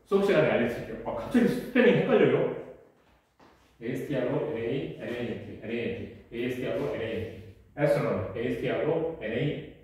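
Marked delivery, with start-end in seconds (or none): 3.8-9.8 low, soft, hurried spelling attempts; muttering to oneself. Real, not acted. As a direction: puzzle out a spelling under your breath. Unsure of spelling, testing it aloud.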